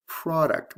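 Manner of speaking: "product" as PRAH-duct, first syllable stressed; short O. Shown as a demonstration. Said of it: "product has a short O".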